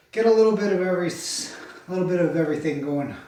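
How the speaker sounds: breathless after a warm-up; winded, quick short phrases; out of breath. Real, not acted. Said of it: "I'm a little out of breath".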